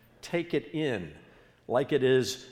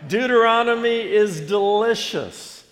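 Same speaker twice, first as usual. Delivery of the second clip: loud, high, ringing slogan; enthusiastic rallying cry; 8 semitones higher, 9 dB louder than usual. Real, not acted. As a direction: proclaim it big for the crowd to repeat. Leads congregation repeating the catchphrase.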